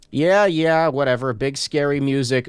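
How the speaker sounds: loud, dismissive brush-off. Real, not acted. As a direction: wave it off loudly. Mocking the game's spooky music.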